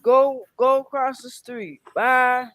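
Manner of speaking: telling off the man the dog growled at; retold telling-off. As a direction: send him off across the street. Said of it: "I said".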